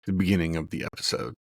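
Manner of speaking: low, punchy monster truck ad voice; monster truck announcer. Shown as a demonstration. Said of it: "I'll do it right in the camera".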